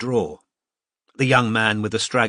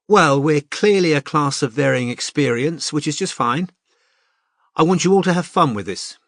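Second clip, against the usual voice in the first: a hint of a brisk, friendly art teacher, slightly higher; lightly voiced cheerful teacher; 4 semitones higher than usual. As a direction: address the class like a confident tutor. Mariam addresses the class again.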